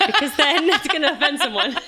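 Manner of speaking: laughing through the words; amused laugh breaking in. Real, not acted. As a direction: giggle as you say it. Laughing about accents.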